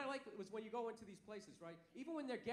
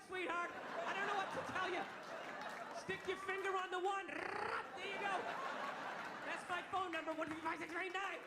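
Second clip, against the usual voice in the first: sarcastic; 4 semitones higher than usual. Retold or imitated. Customer sneering at the cashier over the keyboard.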